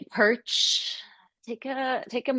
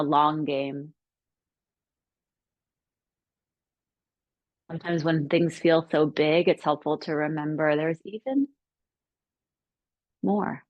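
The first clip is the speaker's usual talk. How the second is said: measured, reflective guidance with long pauses; calm meditation teacher, pausing between phrases; guided meditation. Acted. Leads reflection within meditation.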